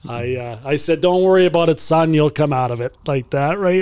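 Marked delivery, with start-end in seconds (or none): 1.0-3.0 playing the coach. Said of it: "that's my turn to be him".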